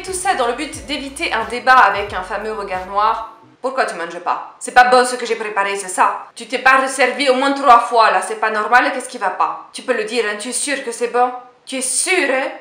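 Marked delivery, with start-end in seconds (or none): 3.6-12.5 put-on nonna with Italian accent. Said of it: "avec ma mère sans l'accent maintenant".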